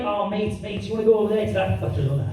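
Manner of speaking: lightly voiced Scouser, Spanish place name in Spanish accent; mock Scouse lad slipping into Spanish. Dad's friend Lee inviting a mate out, mock Scouse-Spanish accent. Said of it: "he says them in a Spanish accent".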